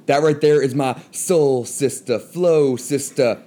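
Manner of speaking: normal talking voice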